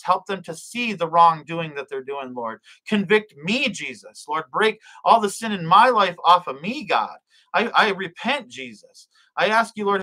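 heartfelt spoken prayer, phrases falling away at the end; earnest prayer. Real, not acted. Leading viewers in prayer for forgiveness and boldness, earnest.

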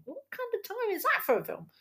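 high-pitched exasperated question; incredulous. Real, not acted. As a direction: voice shooting up high in disbelief. Incredulous rant about screening time.

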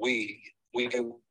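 breaking up phone call. Real, not acted. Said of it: "you are breaking up so bad".

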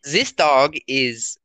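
slow, put-on German accent; drawn-out German-accented delivery; mock German accent. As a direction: imitate a game character's German accent. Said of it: "went off of the accent from".

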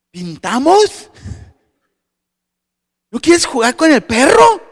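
put-on high, loud sing-song child coaxing friends; little girl voice. Daughter Mar coaxing other kids to play, high child voice.

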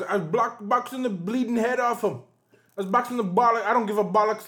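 mock Irish accent. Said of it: "Why did you sound Jamaican".

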